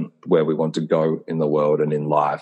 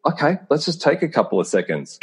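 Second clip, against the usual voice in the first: imitating partner; 9 semitones higher than usual. Partner's imagined caring reply.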